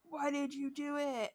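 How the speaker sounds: high, loud, drawn-out shout; yelling. Retold or imitated. Demonologist demanding answers from the spirit, yelling. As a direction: act out a furious yell at a spirit. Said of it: "just starts yelling, and he's like".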